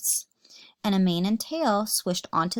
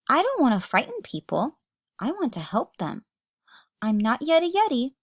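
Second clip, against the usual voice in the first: higher, louder heartfelt plea; earnest plea; 6 semitones higher, 4 dB louder than usual. Acted. George to Dad, pleading. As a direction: beg him to understand.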